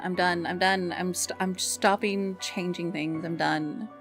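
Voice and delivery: ordinary talk, nothing marked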